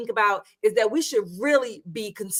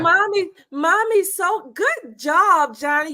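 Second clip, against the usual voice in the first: put-on mother praising toddler; 2 semitones higher than usual. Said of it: "exactly what she was basically saying to him".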